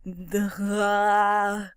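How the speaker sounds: drawn-out open "duh" sound; long vacant "uhh"; dopey imitated noise. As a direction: imitate a clueless character's groan. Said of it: "is kind of just like".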